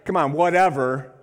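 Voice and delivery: loud call to the crowd; calling out whatever. Real, not acted. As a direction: urge them to shout it back. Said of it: "say whatever".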